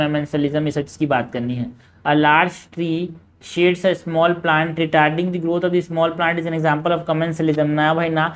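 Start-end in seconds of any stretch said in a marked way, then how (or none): 2.0-7.7 slow, even question reading; measured textbook read-aloud. Acted. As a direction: read the exam question out slowly. Reading out a statement.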